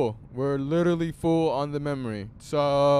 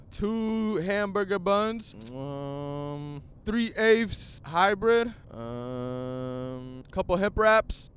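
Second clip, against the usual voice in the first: podcast intro freestyle; 2 semitones higher, slower than usual. Pretend. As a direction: stretch out each item like a show opener. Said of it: "start the podcast off like this".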